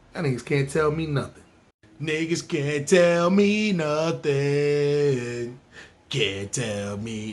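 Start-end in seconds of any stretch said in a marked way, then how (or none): 2.0-7.3 smug boast. Acted. Proud boast, drawn out.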